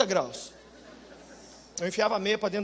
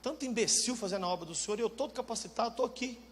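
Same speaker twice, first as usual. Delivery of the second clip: muttered complaint to God; 8 dB quieter than usual. Pretend. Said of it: "Você olha e fala assim".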